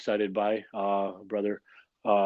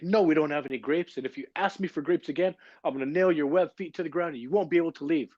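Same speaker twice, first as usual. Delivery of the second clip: mock-angry threat, pitched higher; angry waiter; 6 semitones higher than usual. Waiter threatens the duck in the joke, mock angry. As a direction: ham up the fed-up waiter's threat. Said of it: "Waiter is really angry today".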